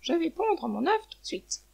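high, slow hen voice; stretched-out, high-pitched announcement; announcing hen. A narrator's reading. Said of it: "Elle dit au pigeon".

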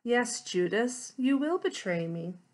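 a touch of tenderness, unhurried; lightly voiced gentle reply. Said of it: "Jesus gently replied".

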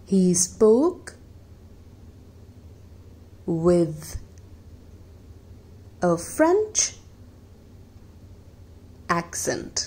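example sentence read word by word; slow example reading. Shown as a demonstration. Teacher reading a second example sentence, slow and spaced. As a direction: dictate each word with long pauses. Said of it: "एक और example देख लेते हैं".

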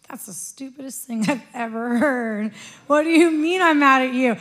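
indignant retort. Retold or imitated. Retelling her talk with God, indignant and loud.

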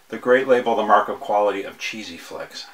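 sarcastic praise for a cheap label. Acted. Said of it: "That's sarcasm".

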